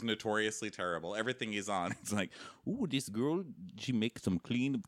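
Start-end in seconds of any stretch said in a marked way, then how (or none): 2.7-4.8 mocking the actor's fake detective accent; hammed-up TV detective accent. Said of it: "What is that accent?".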